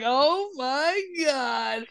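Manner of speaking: high, soft, very drawn-out disbelief; retold stunned relief. Driver let go by the cop, stunned drawn-out relief. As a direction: stretch each word out in amazed relief. Reacting after being let go.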